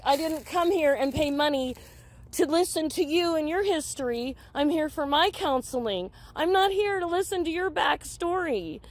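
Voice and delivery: indignant, pitch climbing at the end; retold indignant protest. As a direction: replay telling the counselor off. Retold angry protest to counselor.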